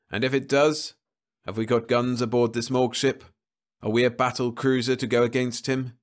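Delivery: a hint of a tense crewman pressing his point; Rice, doubting. Rice arguing with Burnett about the body, lightly voiced.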